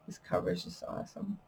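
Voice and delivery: whispered admiration. Real, not acted. Admiring her own book cover.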